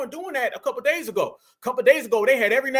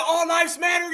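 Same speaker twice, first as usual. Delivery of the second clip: mock quote; 4 semitones higher than usual. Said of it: "Did she just hit us with an".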